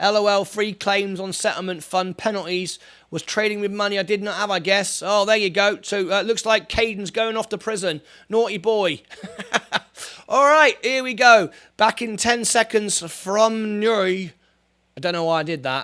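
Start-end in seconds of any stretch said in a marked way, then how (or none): 11.8-14.0 botched fake Irish accent, slow and drawn out. Speaker announces a short break, in a bad attempt at Irish accent. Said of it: "That was supposed to sound like Irish".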